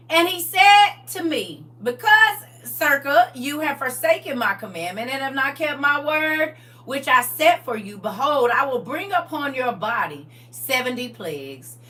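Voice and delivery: emphatic reading aloud; scripture reading. Real, not acted. Teacher rereading God's rebuke with the name inserted, emphatic scripture reading. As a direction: proclaim the verse to the class.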